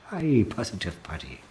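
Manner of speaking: mock Irish accent, falling away at the end. Host says hi to a viewer, putting on an Irish accent. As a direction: greet in a playful Irish accent. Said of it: "say that with an Irish accent".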